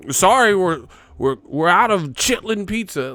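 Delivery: mock pizza clerk. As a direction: play a chirpy clerk refusing an order.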